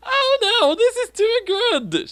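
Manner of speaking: a hammed-up high scream; mock scream. A narrator's reading. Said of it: "she screamed".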